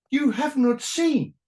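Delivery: grand philosophical voice. Retold or imitated. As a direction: intone it like a solemn sage. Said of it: "has to be a philosophical statement".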